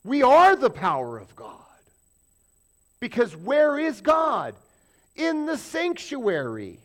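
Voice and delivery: rising, loud preacher's proclamation, slow and drawn out; loud preaching. Real, not acted. Preacher proclaiming to his congregation, loud and slow. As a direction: proclaim it to the congregation at full force.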